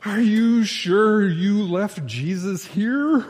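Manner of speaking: put-on drunk's punchline.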